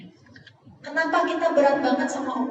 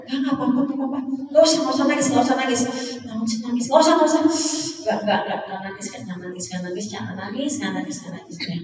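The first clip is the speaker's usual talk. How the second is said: holding back tears; faster than usual. Retold or imitated. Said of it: "Ngomong ke diri sendiri".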